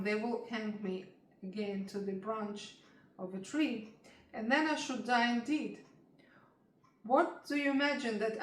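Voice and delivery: put-on grieving child, slow and pleading; sobbing lament. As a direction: weep through the lament. Pinocchio weeping for the fairy.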